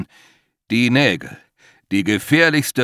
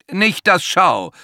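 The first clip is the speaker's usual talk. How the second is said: high, loud and slow panicked plea; desperate high call; frightened cry; 9 semitones higher, 7 dB louder, slower than usual. A narrator's reading. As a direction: beg in terror. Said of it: "ruft er".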